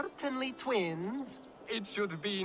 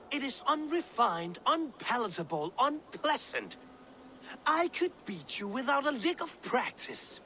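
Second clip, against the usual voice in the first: heated, higher-pitched squabbling; indignant bickering; 4 semitones higher than usual. Acted. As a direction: argue hotly with a rising pitch. Brothers bickering over flyting.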